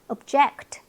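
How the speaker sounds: "object" with weak ub, strong JECT; stress on second syllable. Shown as a demonstration. Teacher repeats the verb, "object" stressed on JECT. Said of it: "동사는 뜻이 달라요".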